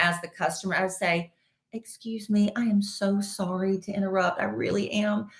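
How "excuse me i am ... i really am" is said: a hint of a polite Southern lady asking nicely; wife showing how she'd ask the checker, mild Southern accent; thick Southern accent. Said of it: "with a very thick Southern accent".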